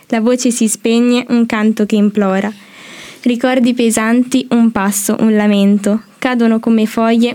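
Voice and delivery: even, rhythmic verse reading; steady cadence, each short phrase set apart; poem recitation. Acted. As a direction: read your poem line by line. Student reads her poem.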